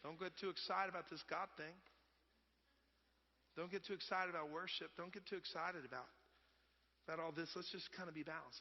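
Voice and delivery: soft, subdued tempering; gently damp down the enthusiasm, tongue in cheek; quiet, measured voice of moderation; mock cautious restraint. Voicing cautious advocates of balance.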